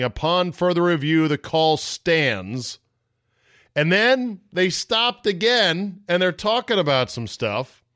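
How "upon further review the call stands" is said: mock referee announcement. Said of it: "coming to the microphone saying".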